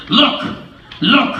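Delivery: high, loud anxious call; frightened fish. Acted. Fish warning the children, frightened. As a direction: cry out in alarm. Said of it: "our fish shook with fear".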